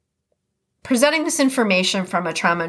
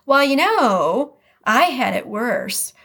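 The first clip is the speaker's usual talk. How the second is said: dismissive one-upping; 4 semitones higher, slower than usual. Retold or imitated. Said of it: "someone else says".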